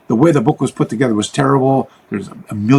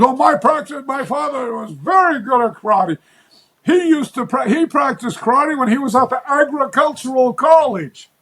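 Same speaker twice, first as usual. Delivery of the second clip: put-on high old man's voice, rising to a shout on karate, then trailing off; the old man at the flea market telling about his father, in an imitated high old man's voice; imitating an old man; 11 semitones higher than usual. Quoting the old man again.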